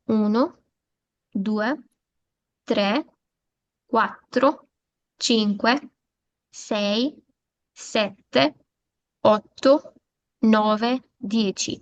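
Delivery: each number slow and separate, rising at the end; Italian numbers repeated. Shown as a demonstration. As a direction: repeat the count carefully for the students. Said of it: "दोबारा repeat करती हूँ".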